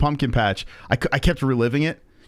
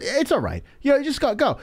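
higher sideways-mouth kid imitation; mock yuppie kid; 9 semitones higher than usual. Kid waving the driver away, mock yuppie voice. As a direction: brush him off out the side of your mouth. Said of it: "yuppie kids with the sideways mouth".

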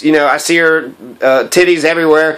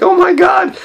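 jumps way up high on "Oh my God," then settles; hammed-up gasp of wonder; playful imitation of a man thrilled by a butterfly; mock excited squeal; 4 semitones higher than usual. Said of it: "He's like".

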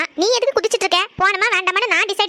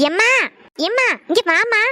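calling out. Acted. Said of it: "காதுக்கு கடந்து அலறிட்டு இருக்க".

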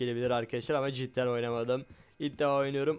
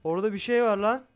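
real frightened yell, higher and louder; startled shout; 7 semitones higher, 6 dB louder than usual. Real, not acted. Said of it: "ben çok bağırıyorum". (korkuyla bağırarak)

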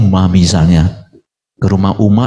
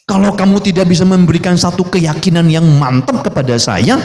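usual speaking voice

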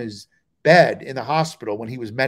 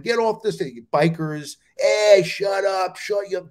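mock yelling; 3 semitones higher than usual. Bikers heckling the bombing MC, mock yell. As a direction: heckle like a biker, half-strength. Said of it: "They're yelling at him".

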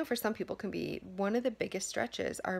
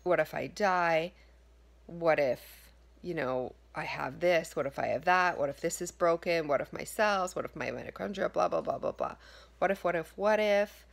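fretful, rising louder through the what-ifs; mock panicky self-doubt, getting louder; anxious inner voice; 3 semitones lower, 3 dB louder than usual. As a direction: play the nagging worried mind spiralling. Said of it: "you hear your mind say".

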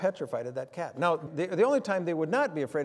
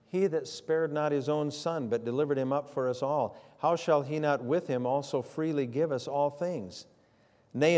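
scripture reading. Acted. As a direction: read the verses deliberately to the congregation. Reads scripture passage.

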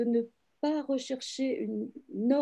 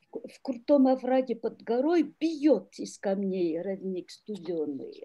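reading the Russian line with its shifted stress; вслух, как стихи; Russian verse recited. Shown as a demonstration. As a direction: recite it as verse, leaning on the meter. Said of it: "l'accent tout à coup se transporte sur la première".

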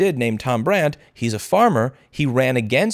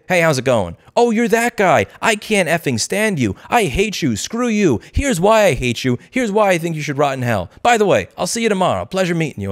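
blunt New Yorker; 3 semitones higher than usual. Retold or imitated. New Yorker telling a new acquaintance off, mock brash. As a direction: lightly play a rude, honest New Yorker. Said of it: "somebody will meet you and say".

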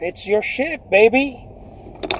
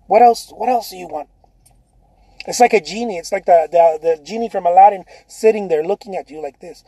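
ordinary delivery

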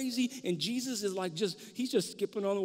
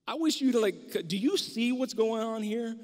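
louder, higher urgent plea; pleading with God; 4 semitones higher, 4 dB louder than usual. Retold or imitated. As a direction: demand that God see what is happening. Voicing a believer crying to God.

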